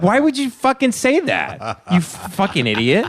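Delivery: high-pitched exasperated demand; incredulous, worked-up mock tirade; retold anger. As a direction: re-enact losing it at a heckler. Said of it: "I started getting really mad".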